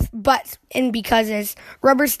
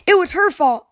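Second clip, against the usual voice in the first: cub's accusation; 6 semitones higher, 3 dB louder than usual. Acted. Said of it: "Cries of".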